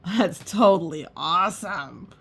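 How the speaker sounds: put-on excited boy's shout; mild kid's shout. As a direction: shout it like a thrilled kid. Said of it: "Edison shouted".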